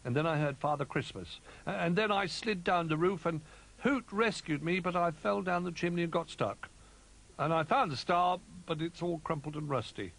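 high little bear voice, explaining; small bear recounting mishaps; Little Bear character. A narrator's reading. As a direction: tell the adventure in a high childlike voice.

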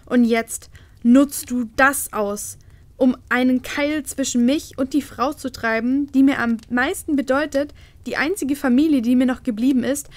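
loud, anguished outburst; sobbing queen. Acted. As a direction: cry it out at the father, rising to a shout. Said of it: "schluchzte die Königin".

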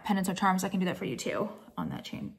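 breathless, catching her breath; winded, pushing the words out. Real, not acted. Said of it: "I'm so out of fucking breath".

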